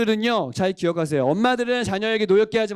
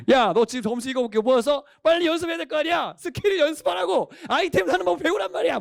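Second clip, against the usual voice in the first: high-pitched mock scolding; nagging mother; 7 semitones higher than usual. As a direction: scold like an exasperated mom, pitch climbing high. Acts mother nagging about gaming lessons. (높은 톤으로 다그치는 엄마 흉내)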